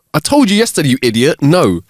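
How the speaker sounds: an annoyed barman, pitch up; irritated barman. Acted. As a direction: snap back, fed up. Annoyed barman, told joke.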